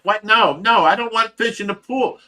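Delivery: high, startled refusal; mock protest. Wife refusing to get into the koi pool, alarmed and high. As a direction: squeal it out like she's alarmed.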